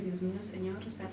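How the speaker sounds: soft, quiet plea to God; retelling a frightened whispered prayer; hushed prayer. Retold or imitated. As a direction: pray it under your breath. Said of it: "me puse en oración y dije".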